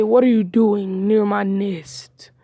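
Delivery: slow, rough-whispered eagle voice; eagle challenge. Acted. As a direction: draw it out like an eagle guarding its nest. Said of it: "the eagle would say".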